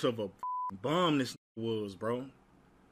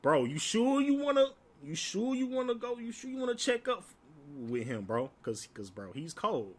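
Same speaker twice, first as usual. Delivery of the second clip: Ben's cautious warning; 5 semitones higher, 3 dB quieter than usual. Retold or imitated. Friend Ben warning him.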